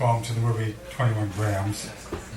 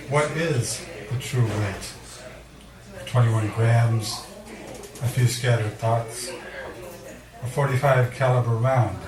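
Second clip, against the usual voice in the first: poem reading. Acted. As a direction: lean on each "weight". Reads poem Specific Gravity.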